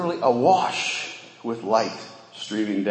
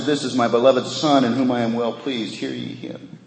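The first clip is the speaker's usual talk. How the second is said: louder, higher, proclaiming from the cloud; booming voice from heaven; 4 semitones higher, 6 dB louder than usual. Acted. Preacher voicing God on the mountain, booming from the cloud. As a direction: announce it like God speaking from above.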